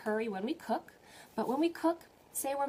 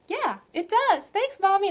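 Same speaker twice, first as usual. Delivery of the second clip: put-on child thanking mommy after the kiss; happy child; 11 semitones higher, 12 dB louder than usual. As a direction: chirp it like a cheered-up kid. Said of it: "They're like".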